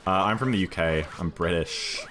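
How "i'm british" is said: slight American accent on "British". Real, not acted. UK streamer telling chat where they're from, slipping into American accent. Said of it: "said British in an American accent".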